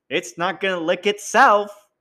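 sassy campy drag queen. Acted. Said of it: "That was my drag queen voice".

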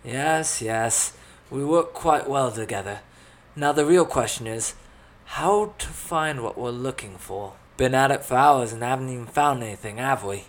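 a hint of swagger; cocky adventurer. A narrator's reading. Thales taking charge after the fight, lightly cocky voice.

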